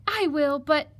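high, hesitant piglet voice; sighed resignation. Acted. Piglet agrees but stalls the fox, mildly sighing. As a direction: give in, then hang on the last word. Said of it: "sighed the piglet".

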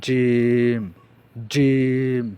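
জিম said firmly from the middle of the tongue; a hard, loud জিম; firm jim. Shown as a demonstration. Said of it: "যেমন". (জিম শক্ত করে উচ্চারণ)

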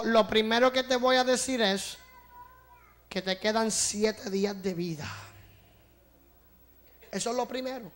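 demon speaking. Retold or imitated. Demon threatens preacher through the girl's mouth, understated menace. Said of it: "el demonio me habló por la boca".

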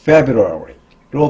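"February" with a strong FEB; stress on first syllable. Shown as a demonstration. Teacher explaining February to learners, stress at the very front. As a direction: lean on the start of "February". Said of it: "맨 앞에 강세가 있어서".

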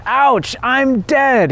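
high-pitched, drawn-out mock scream; acted scream. A narrator's reading. Struck wretch falls to the ground, mock screaming in narration. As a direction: cry out high and slow, without much volume. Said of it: "he screamed".

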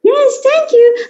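put-on sweet little-girl thanks; Fifi's cute voice. Fifi thanking someone, high cute voice. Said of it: "Like, cute voice".

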